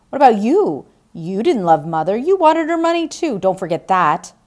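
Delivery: loud, high, stabbing back; angry retort. Acted. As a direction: turn the accusation on her. Roger fires back at Diane.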